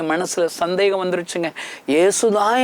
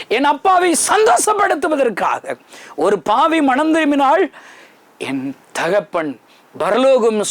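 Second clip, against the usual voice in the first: fervent retold reply; 9 semitones higher than usual. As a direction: pour heart into the reply, rising to tears. Preacher's retold reply, rising emotion. (உணர்ச்சிப் பெருக்குடன் உயர்ந்த குரலில் பதில்)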